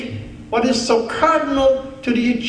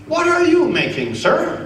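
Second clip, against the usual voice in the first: high-voiced mock-regal question; lightly imitated royal visitor, pitched well up; the Queen; 8 semitones higher than usual. Queen asking a biscuit worker about pay, mock-regal and high. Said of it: "I can't do the accent".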